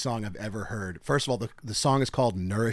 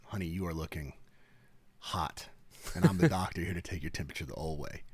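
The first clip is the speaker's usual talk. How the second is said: sly flirt; 6 semitones lower, 7 dB quieter than usual. Retold or imitated. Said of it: "And I said".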